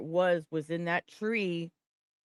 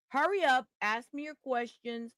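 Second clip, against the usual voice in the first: impatient outburst; 4 semitones higher than usual. Real, not acted. Defendant venting at doctors.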